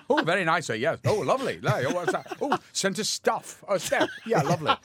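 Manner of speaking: the writer greets his guest at dinner in a high, hammy voice; the writer's voice. Retold or imitated. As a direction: ham up the host offering food. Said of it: "when I'm eating and goes".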